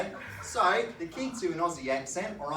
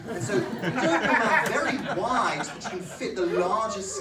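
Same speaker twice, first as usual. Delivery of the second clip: higher, wide-mouthed posh English; posh English accent; 5 semitones higher, 4 dB louder than usual. Shown as a demonstration. Comic demonstrating the wide mouth, in exaggerated posh English.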